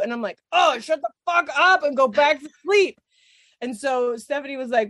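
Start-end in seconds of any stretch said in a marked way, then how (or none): 0.5-3.0 mock snap. Snapping at the puppies.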